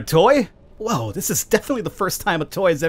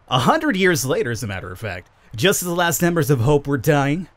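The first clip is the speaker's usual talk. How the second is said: lightly voiced eerie spirit; creepy disembodied voice. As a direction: intone it like a voice from nowhere. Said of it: "I should be creepy disembodied voice more often".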